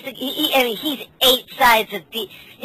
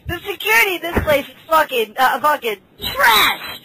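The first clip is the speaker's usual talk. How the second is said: exasperated disbelief; 8 semitones higher than usual. Retold or imitated. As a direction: scoff at the useless security. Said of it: "and I'm like, I'm like".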